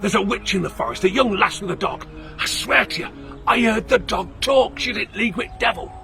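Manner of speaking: frightened peddler yelling his tale; shouting. Acted. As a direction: shout it in panic. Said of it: "he shouted".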